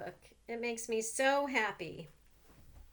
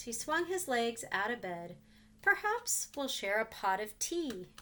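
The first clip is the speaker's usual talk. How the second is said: put-on reading to children. A narrator's reading. Reads picture book to children.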